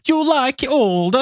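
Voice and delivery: hammed-up Italian creep; Italian accent. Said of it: "Can you do an Italian accent?".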